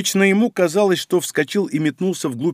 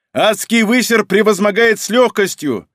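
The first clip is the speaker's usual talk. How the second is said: rallying yell; 5 semitones higher, 3 dB louder than usual. Acted. Rallying battle cry.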